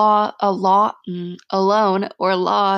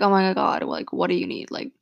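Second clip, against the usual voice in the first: fake concern; faster than usual. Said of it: "Don't just be like".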